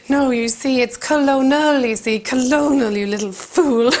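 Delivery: superior. Retold or imitated. Maeve imagining she corrects the rival, condescending. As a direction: lecture her condescendingly. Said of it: "I was like".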